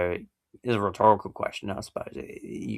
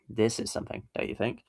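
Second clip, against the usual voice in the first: statement then don't you think? rising at think; flat statement, then lift the tag; questioning tag; 3 semitones higher than usual. Shown as a demonstration. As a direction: ask for agreement with a rising tail. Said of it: "statement in a questioning tone".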